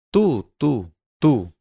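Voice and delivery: exclamación aguda y acusadora; señala gritando, más alto; exclamando. Acted. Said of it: "exclamé". (exclamación acusadora)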